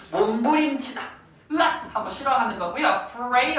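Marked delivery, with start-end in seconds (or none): 1.5-1.9 short acted "argh"; mock cry of revulsion. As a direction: blurt out a recoiling yelp in imitation. Acts out struggling in dislike.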